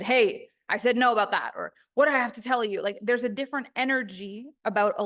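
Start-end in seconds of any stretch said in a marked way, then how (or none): 0.0-1.5 low powerful voice. Shown as a demonstration. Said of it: "a low, powerful voice". 1.9-2.8 low powerful voice. Shown as a demonstration. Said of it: "a low, powerful voice".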